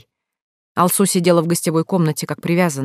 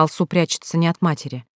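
plain reading voice

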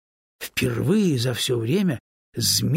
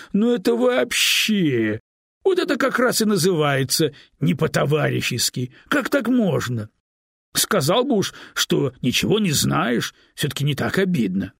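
louder, higher hurt scolding, fading off; upset reproach; 6 semitones higher, 6 dB louder than usual. A narrator's reading. Stone hurt by the snake's refusal, loud wounded reproach. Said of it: "расстроился камень".

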